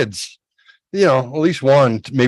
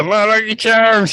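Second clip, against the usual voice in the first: high, slow leprechaun voice; sing-song cereal mascot; 10 semitones higher than usual. Retold or imitated. Echoes Lucky Charms voice.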